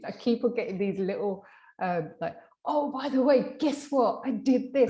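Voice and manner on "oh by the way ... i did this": high, loud, bubbly client message; a bright, excited mock of the client; imitating excited client. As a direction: read his texts like he can't contain himself.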